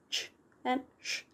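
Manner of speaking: ch and sh as single unvoiced sounds; digraph sounds. Shown as a demonstration. Teacher showing learners letter pairs, ch and sh as single sounds. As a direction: say "ch" and "sh" as bare consonant sounds. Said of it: "We do not pronounce those as k".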